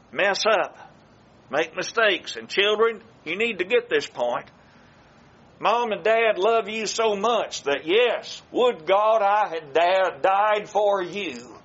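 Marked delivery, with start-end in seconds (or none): 5.6-11.5 tender plea. Real, not acted. Preacher tells the children parents would die for them, slow tender plea. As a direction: let them hear how much they're loved.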